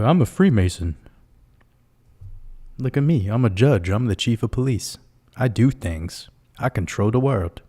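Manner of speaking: a light Mike Tyson-style boast; mock tough-guy accent. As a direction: lightly mimic a boxer's swagger, mostly own voice. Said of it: "This is my Mike Tyson accent".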